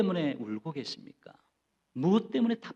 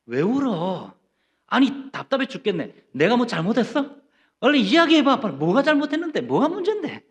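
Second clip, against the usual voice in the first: exasperated, pushing louder and higher; impatient husband; 5 semitones higher, 5 dB louder than usual. Retold or imitated. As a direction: badger her for answers, building irritation. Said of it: "하고 묻죠". (아내를 몰아세우는 남편, 짜증 섞인 언성)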